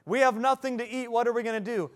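high, loud panicked mock wail; whining Israelites. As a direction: grumble like thirsty, scared wanderers. Israelites complaining about food.

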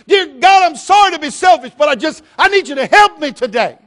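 loud, high, pleading preacher; full-force preaching prayer; shouted prayer. Acted. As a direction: cry out to God.

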